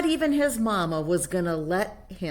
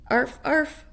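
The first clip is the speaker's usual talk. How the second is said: higher little-dog yip; barking; 8 semitones higher, 4 dB louder than usual. Acted. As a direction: yap like a tiny puppy. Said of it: "barked Juju Bee".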